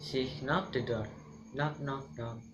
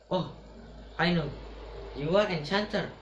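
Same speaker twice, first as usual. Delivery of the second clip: higher, louder accusation; accusing dwarf; 4 semitones higher, 3 dB louder than usual. Acted. Dwarf accusing Snow White of being an enchanter, loud. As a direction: point the finger, sure of it.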